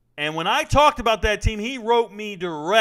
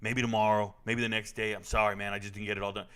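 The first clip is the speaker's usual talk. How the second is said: much lower, softer mumbled excuses to the sergeant; sheepish young soldier; 9 semitones lower, 6 dB quieter than usual. Retold or imitated. Young soldier making excuses to his Top, mumbled low and soft. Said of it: "he goes".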